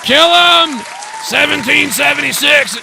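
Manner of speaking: high-pitched imitation yelling; Alex Jones. Caller parroting a radio host's slogans, high yell. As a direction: yell it like a ranting radio host. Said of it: "just yelling everything Alex Jones is".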